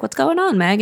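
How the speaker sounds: father surprised to see his daughter Meg, squeaky and bright; high Trotty voice. Retold or imitated. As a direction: pitch it way up like a cheery poor old man.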